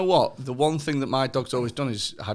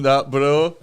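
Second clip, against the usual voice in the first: louder, put-on Bradford Asian; Bradford Asian accent; 6 dB louder than usual. Comic showing off his old phone routine, Bradford Asian accent. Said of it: "do Bradford Asian on the phone".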